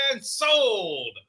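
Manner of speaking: auctioneer. Retold or imitated. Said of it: "now I'm doing an auctioneer".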